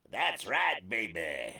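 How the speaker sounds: low, crooning late-night DJ purr; lightly imitating Wolfman Jack. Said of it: "you sounded like Wolfman Jack".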